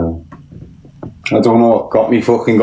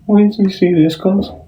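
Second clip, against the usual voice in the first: shrieking laugh then a high amused question; shocked giggling outburst; 9 semitones higher than usual. Real, not acted. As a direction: squeal with laughter.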